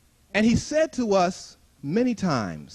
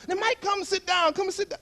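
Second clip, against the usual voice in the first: coaxing group; 9 semitones higher than usual. Retold or imitated. Group inviting him to sit.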